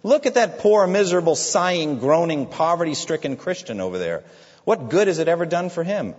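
preacher voicing the wicked man's contempt; scornful wicked man. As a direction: scoff at the poor Christian. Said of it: "As for the wicked man".

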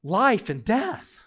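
life and death, slow and heavy; slow emphatic. Real, not acted. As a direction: land each word like a verdict. Preacher's emphatic climax.

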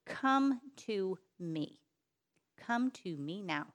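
a hint of a mother calling her child back, slow; lightly voiced mother, slowing into a quiet command; firm mother's summons. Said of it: "I almost hear it in the voice of a mother".

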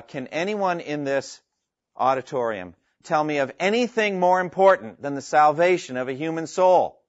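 mildly imitated passionate appeal; Rick Warren. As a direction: put a challenge to a whole auditorium, building slightly. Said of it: "giving a very passionate appeal".

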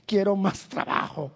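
mock tearful plea, words drawn out; drawn-out pretend lament; mock crying. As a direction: imitate someone whining a prayer to God. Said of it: "Ellos no estaban llorando".

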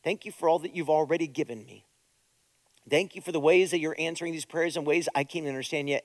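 quiet, low, tender prayer; hushed sincere prayer; soft prayer. Shown as a demonstration. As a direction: pray it gently and softly. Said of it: "so my prayers go like this".

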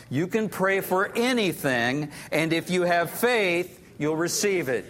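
congregation reading aloud together; many voices in unison. Real, not acted. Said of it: "let's read it aloud together".

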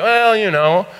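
hammed-up breezy doctor, high and loud; exaggerated high-pitched offhandedness; mock nonchalant. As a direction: imitate an airy, unbothered doctor in a high voice. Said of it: "he made it so nonchalant".

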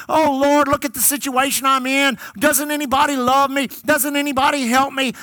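imitating a begging, moaning complainer; put-on pitiful prayer, on one sustained note; mock moaning. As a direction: drone out a pleading lament in mockery. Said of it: "crying and begging and moaning and murmuring".

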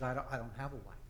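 soft, low mumbled denial; sheepish reply. Retold or imitated. Burly man answers police at his door, sheepish.

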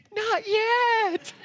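high, light and cheerful; officer's cheerful reply. Retold or imitated. Officer to the preacher, high and cheerful. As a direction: shrug it off with a grin. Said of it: "He goes".

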